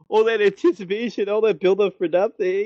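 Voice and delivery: mock letdown. Hero let down after anticlimax.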